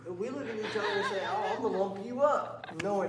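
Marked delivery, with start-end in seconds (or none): 1.3-2.5 laughing mock threat.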